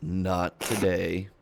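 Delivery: slow, loud, measured refusal; hint of a stern protector; lightly voiced Man of Flames. Man of Flames steps in front of Loki, slow loud warning. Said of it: "Man of Flames looks over at him and steps in front".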